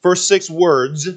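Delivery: "six" lifted and leaned on, slow; slow and deliberate, hitting "six"; stress on six. Shown as a demonstration. Preacher corrects the count, stressing "six". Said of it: "I wanna put the emphasis where it's at".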